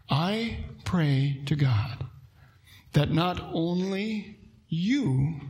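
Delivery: slow, hushed whisper; whispered prayer. Acted. Pastor voices Paul praying for Agrippa, slow whisper. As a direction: breathe the words slowly like a prayer.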